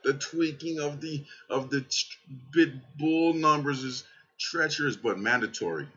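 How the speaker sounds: hammed-up dying whine; mock exhausted voice. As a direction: play it half-dead from tweaking all night. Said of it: "so you could hear it in my voice".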